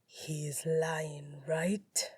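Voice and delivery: low, soft, slow plea; wounded husband, half question; hurt and hopeful. A narrator's reading. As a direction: ask it quietly, hoping for a yes. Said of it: "all the hurt and hope".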